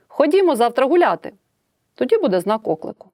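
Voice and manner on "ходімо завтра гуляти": «Ходімо» вигукнуто вище й гучніше; exclamatory. Shown as a demonstration. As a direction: say «Ходімо завтра гуляти» as an eager exclamation. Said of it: "А можу сказати". (окличне спонукання, вище й гучніше)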